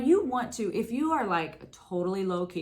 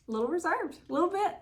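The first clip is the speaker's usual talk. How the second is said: reserved; 9 semitones higher, faster than usual. Real, not acted. Joking about having to be reserved.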